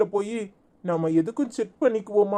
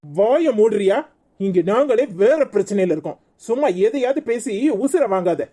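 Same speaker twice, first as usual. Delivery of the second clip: angry scolding. Acted. Mother-in-law scolds noisy relative.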